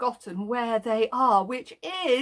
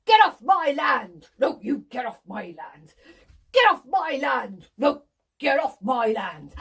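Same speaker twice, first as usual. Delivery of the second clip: call and response; 5 dB louder than usual. Shown as a demonstration. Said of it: "are we ready?".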